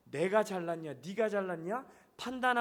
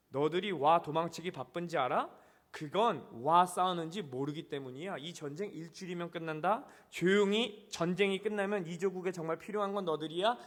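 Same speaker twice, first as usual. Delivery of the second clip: lightly voiced North Korean officer; a hint of North Korean dialect; North Korean accent; 3 semitones lower than usual. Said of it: "북한 사투리로 들릴 줄 믿습니다".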